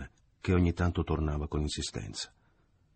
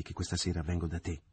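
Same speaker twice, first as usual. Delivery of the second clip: softer, firm and held back; a softer, resolute promise to Leo; firm, through teeth; 5 dB quieter than usual. Acted. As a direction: set it down quietly through clenched teeth. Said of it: "disse con fermezza e quasi gli parve a denti stretti".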